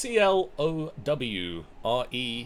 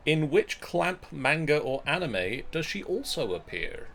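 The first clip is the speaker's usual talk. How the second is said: crisp quiz host read; newscaster voice. Acted. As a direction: read it like the evening news. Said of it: "I like your newscaster voice".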